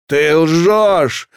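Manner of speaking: high, loud, drawn-out cry; anguished cry of denial; breathed-out accusation. A narrator's reading. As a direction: fling the accusation out on one long breath. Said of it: "выдохнул Дик".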